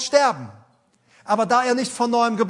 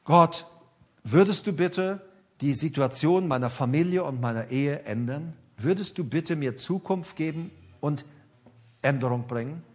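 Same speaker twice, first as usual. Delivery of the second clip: lower-pitched, subdued plea to God; retold prayer; 6 semitones lower than usual. Retelling someone's prayer for family and marriage, low and earnest. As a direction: recount a humble prayer, voice dropped. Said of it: "und ich habe gesagt".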